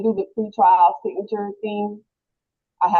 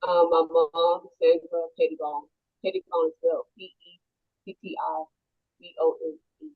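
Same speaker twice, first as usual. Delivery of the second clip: muffled, as if through a hand. Real, not acted. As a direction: speak through a covered mouth. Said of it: "you're very muffled".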